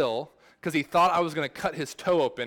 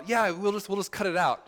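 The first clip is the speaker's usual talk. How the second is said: a light, casual take on the in-laws, pitched a bit higher; breezy in-laws; 5 semitones higher than usual. Retold or imitated. In-laws shrugging off a splinter, offhand and casual. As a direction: toss it off like it's nothing. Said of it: "his in-laws would say things like".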